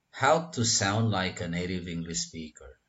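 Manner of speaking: whole sentence linked as if one word; words run together. Shown as a demonstration. Teacher demonstrates a sentence to learners, words run together. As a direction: link 'sound like a native English speaker' without gaps. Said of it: "hampir semua kata ini terdengar menjadi satu kata".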